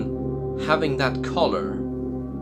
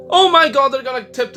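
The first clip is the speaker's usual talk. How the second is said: shocked gasp; 10 semitones higher, 8 dB louder than usual. Real, not acted. Shocked by cliff scene.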